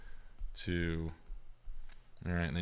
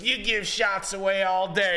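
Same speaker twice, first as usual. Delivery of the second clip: much higher, louder, slow comeback; mock retort; 14 semitones higher, 5 dB louder, slower than usual. Bartender retorting to the boss, mock high and loud. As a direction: fire back in a hammed-up voice. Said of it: "And she's like".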